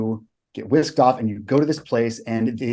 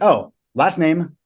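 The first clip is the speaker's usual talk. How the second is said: slow, high dawning realization; sudden realization; 5 semitones higher, 4 dB louder, slower than usual. Retold or imitated. Recruit realizing the answer mid-panic, slow and excited. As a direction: let it click slowly, a little louder. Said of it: "I'm like".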